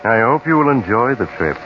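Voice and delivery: spooky anthology host welcoming the audience; eerie radio host intro. Acted. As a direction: draw the listener into a creepy tale. Host opens the radio tale.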